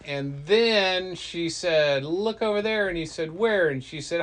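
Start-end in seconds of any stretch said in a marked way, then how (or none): 2.0-2.9 tag. Acted. Girl tricks Loki into looking. 3.3-3.7 loud, high acted "where?"; eager question. Loki falls for the trick.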